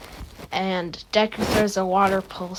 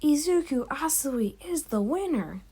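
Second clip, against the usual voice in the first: high-pitched announcer declaring a result; mock winner announcement; Midnight; 6 semitones higher than usual. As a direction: imitate an arena announcer, pitched up. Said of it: "Midnight then announces".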